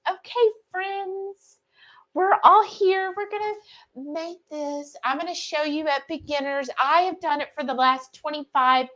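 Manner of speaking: a hint of a sweet Texas lady; imitating a Texan cooking host; Texan impression. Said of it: "she talks very s-, like Texan".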